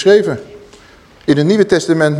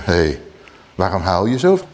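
soothing cherub; 9 semitones lower than usual. Acted. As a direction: comfort her gently from above. Cherubim voiced asking why she cries.

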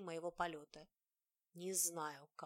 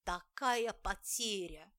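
anguished wail; 6 dB louder, slower than usual. Acted. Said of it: "взвыл раненым зверем".

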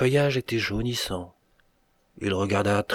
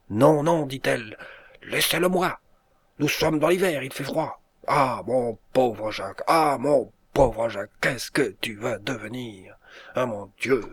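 desperate plea; 3 semitones higher than usual. A narrator's reading. Dying girl clings to muff.

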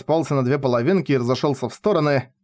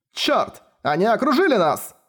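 high panicked shout; alarmed; 8 semitones higher than usual. A narrator's reading. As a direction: cry out in alarm. Марчбэнкс в панике. (испуганно, высоко)

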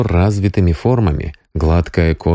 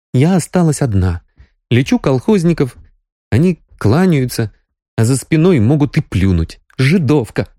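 higher Sonya voice, bitter; bitter young woman; 7 semitones higher than usual. A narrator's reading. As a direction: spit out the slur they use. Sonya recounts villagers.

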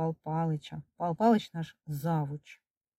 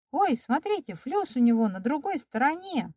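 put-on high, excited girl's cry; yelling; 7 semitones higher than usual. A narrator's reading. Tanka exposing the fake swelling to the class, high yell. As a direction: call it out in a high, carrying voice. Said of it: "Танька Ведёркина как заорёт".

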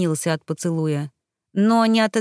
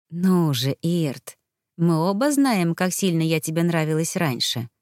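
purring seductress; 2 semitones lower than usual. Acted. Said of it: "промурлыкала Гальда".

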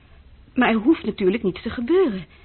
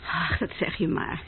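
whispered; 4 semitones lower, 6 dB quieter than usual. Acted. Unvoiced dismissive reply.

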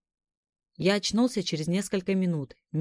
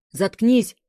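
1 exhaled shout; 5 semitones higher, 7 dB louder than usual. A narrator's reading. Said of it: "выдохнул я".

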